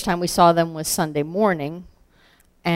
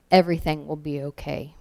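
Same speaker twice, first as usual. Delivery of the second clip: softer, lightly acted comforting line; gentle reassurance; 2 semitones lower, 6 dB quieter, faster than usual. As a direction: quietly console a stranger. Nancy comforts the man, acted.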